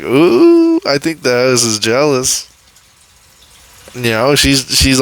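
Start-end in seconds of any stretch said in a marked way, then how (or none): 0.0-2.5 playful gossip about a jealous house; teasing ooh. Retold or imitated. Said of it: "so I was like".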